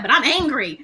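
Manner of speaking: mock angry protest. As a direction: protest through amusement, half-hearted anger. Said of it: "I'm just sitting here like".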